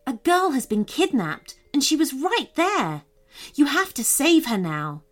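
put-on lively storybook reading for kids; story narration. A narrator's reading. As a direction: read it like a bedtime adventure.

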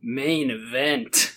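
slow breathy mock lady voice; a weak attempt at a sexy woman; man doing a woman's voice. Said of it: "In your sexiest lady voice".

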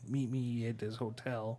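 slow, lightly put-on Chicago accent; a hint of Chicago drawl on the line. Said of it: "Is that your accent?".

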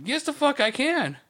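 high, slow, defiant snap back; defiant retort. Retold or imitated. To the managers, a high slow defiant comeback. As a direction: drag it out, daring them to stop him.

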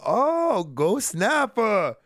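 high, drawn-out ghostly howl; hammed-up haunted-house moan; mock spooky wail.

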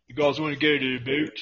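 mock Canadian, "about" turned to "boot"; quick caricature of a Canadian; Canadian accent. Joking with co-host about going out, Canadian accent. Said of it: "I love Canadians".

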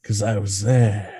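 hammed-up retort; mock Ricky. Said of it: "he's like".

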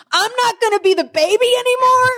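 put-on high, whiny little-kid voice; mock-wail like the baby of the family losing his spot; youngest child's lament. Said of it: "Silas is just like".

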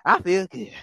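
mock delight. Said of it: "they like".

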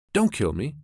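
high, loud frightened plea; almost weeping. A narrator's reading. Muskrat begging the mongoose for mercy, almost weeping. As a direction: plead for your life, near tears. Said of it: "almost weeping".

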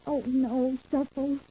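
soft, pleading and worried; hushed plea. Acted. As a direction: beg him quietly to stop. Pleading, frightened at the plan.

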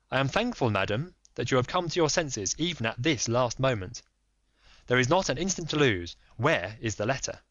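lightly voiced firm detective; Holmes. Holmes pressing the lady, lightly voiced firm.

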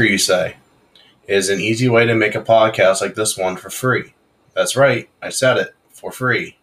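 upbeat sponsor read. Acted. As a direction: sell it like a radio spot. Sponsor ad reads before show.

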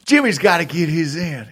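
put-on lightly drawled Georgia accent quote; a hint of Georgia drawl, teasing; mock Georgia drawl. Podcast host quoting old man in mild Georgia drawl. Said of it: "in a Georgia accent".

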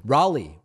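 Raleigh said as "RAH-lee", first vowel as in "father"; trying another pronunciation. Shown as a demonstration. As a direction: say Raleigh to rhyme with "Bali". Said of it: "what is the right pronunciation".

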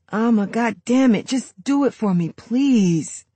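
angry demand. Acted. Brother demands, cursing.

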